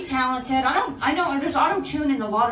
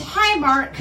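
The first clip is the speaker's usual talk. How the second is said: quoting a movie line; 4 semitones higher, 5 dB louder than usual. Retold or imitated. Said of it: "the line where he says".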